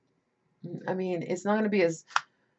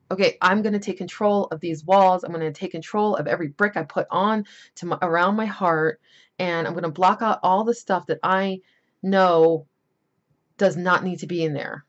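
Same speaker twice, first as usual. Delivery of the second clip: determined inner voice; 4 dB louder than usual. Retold or imitated. Inner voice taking control.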